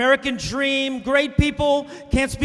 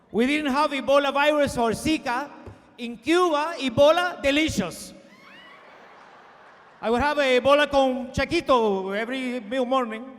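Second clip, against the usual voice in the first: put-on Cuban exile accent. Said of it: "old exile's boasts continue".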